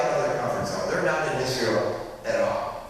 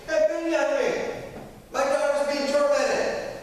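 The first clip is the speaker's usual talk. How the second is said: pleading yell; 12 semitones higher than usual. Retold or imitated. Woman crying out to Jesus for her daughter, pleading yell. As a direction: cry out to Jesus for mercy. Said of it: "And so she yells out".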